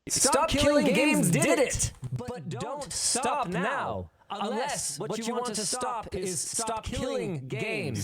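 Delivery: loud proclaiming town crier call. Acted. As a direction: announce it like a town crier in the square. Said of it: "You sound like a town crier".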